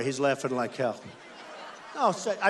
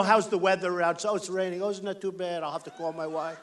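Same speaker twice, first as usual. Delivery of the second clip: mock small talk; 5 dB quieter than usual. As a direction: drop to a soft, chatty mock politeness with a laugh. Mocking imagined small talk again.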